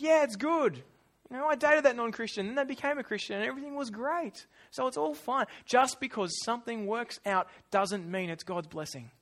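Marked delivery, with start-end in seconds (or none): 0.0-5.5 high, upbeat excuse; acted glib reassurance, pitched up; breezy self-justification. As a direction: wave the worry away lightly.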